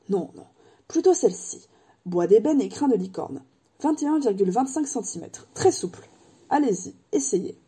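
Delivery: lightly voiced, wistful old wandmaker; a hint of an old craftsman remembering. Ollivander remembers Harry's mother, lightly voiced old man.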